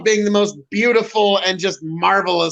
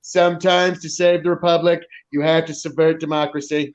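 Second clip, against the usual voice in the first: lower, mock-presidential Trump voice, speeding up at the end; lightly voiced Trump shrugging off democracy; a hint of Trump at the podium apologizing; Donald Trump impression; 4 semitones lower than usual. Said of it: "Donald Trump might just come out onto the podium and be like".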